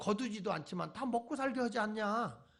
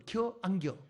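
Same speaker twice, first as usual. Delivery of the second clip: "겨? 안 겨?" said in short, clipped Chungcheong dialect; 충청도 사투리로 짧게 "겨? 안 겨?"; slower than usual. Shown as a demonstration. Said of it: "그것도 "겨? 안 겨?" 이렇게".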